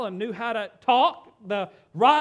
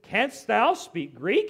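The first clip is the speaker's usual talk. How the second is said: slow, astonished question; flabbergasted; 4 dB louder, slower than usual. Acted. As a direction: ask it slowly in disbelief. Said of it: "He was just flabbergasted".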